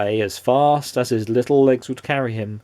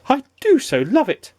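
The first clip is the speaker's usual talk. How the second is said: gleeful; 14 semitones higher than usual. A narrator's reading. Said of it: "he cried".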